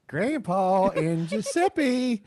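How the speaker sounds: slow, drawn-out introduction; grand announcement. Acted.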